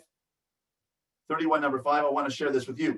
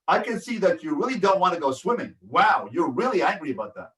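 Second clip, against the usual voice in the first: strong, energetic tone. Shown as a demonstration. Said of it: "in a strong, energetic tone".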